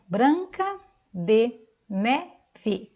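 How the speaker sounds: "Branca de Neve" drawn out very slowly, syllable by syllable. Shown as a demonstration. Teacher sounds out the whole name slowly for the class. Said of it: "Cada sílaba está com uma cor diferente".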